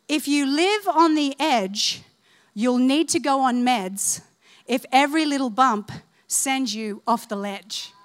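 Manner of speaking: measured recital of a little rhyme; reciting a ditty. Shown as a demonstration. Preacher shares her own little poem to remember, reciting deliberately. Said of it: "God gave me this little ditty".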